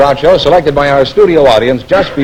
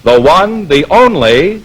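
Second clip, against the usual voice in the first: a radio announcer reading the opening ad over the music; sponsor announcement. Acted. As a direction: sell the sponsor with a big show voice.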